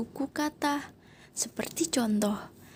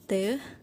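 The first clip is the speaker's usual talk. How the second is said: Te-li-nga split into three beats; syllable by syllable; 3 semitones lower, much faster than usual. Shown as a demonstration. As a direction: say Te-li-nga with a break after each syllable. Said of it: "suku katanya begini".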